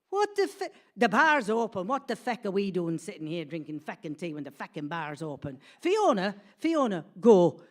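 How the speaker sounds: hammed-up exasperated yelling; acted outrage. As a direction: burst out indignant and send her off. Bella's outraged discovery acted out.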